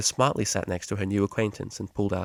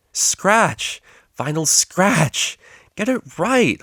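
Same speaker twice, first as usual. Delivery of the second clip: loud, much higher yelled correction; hollering; 11 semitones higher, 7 dB louder, much slower than usual. A narrator's reading. DJ corrects mispronounced name, hollering. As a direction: bellow the name back at her. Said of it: "hollered the D J".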